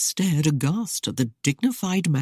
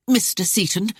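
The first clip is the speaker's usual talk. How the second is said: defiant rise on Mister Seaton; hurled answer; 5 semitones higher than usual. A narrator's reading. Lady defiantly addressing the captain, lifting his name. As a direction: say Mister Seaton with a challenging lift. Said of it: "Arienne hurled back her answer".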